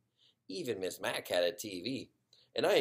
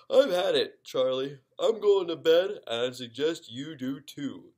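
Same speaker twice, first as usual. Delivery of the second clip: louder, higher tired mom voice; fed-up mom; 4 semitones higher, 8 dB louder than usual. Acted. Tired mom tells husband Charlie she's going to bed, fed-up and louder. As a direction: announce bedtime like a worn-out mother.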